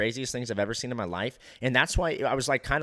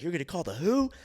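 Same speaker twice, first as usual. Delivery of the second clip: higher, incredulous imitated comeback; imitated menacing question with rising end; mock challenge; 6 semitones higher than usual. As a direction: throw the threat back, rising on "who". Imitating enraged man's menacing comeback.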